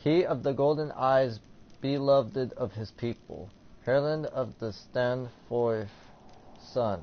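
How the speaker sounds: lightly ceremonial reading with finesse; a little finesse. Acted. Player reading a tribute to a king, with a little finesse. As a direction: read it out with some polish. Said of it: "say it with a little finesse".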